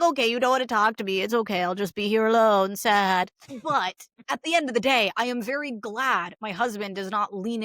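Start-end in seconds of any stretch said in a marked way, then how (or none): 0.0-3.3 mock sulking. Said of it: "I'll just like".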